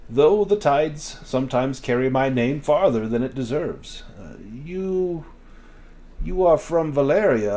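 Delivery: a hint of a smooth trader host; merchant Vestro. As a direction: welcome guests with easy merchant charm.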